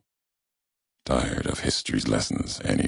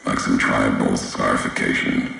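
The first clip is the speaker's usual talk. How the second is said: louder, solemn voice coming over a transmitter; echoing broadcast voice; 4 dB louder than usual. Acted. A distant figure addressing the courier, solemn broadcast voice. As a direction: speak like a message carried across a wasteland.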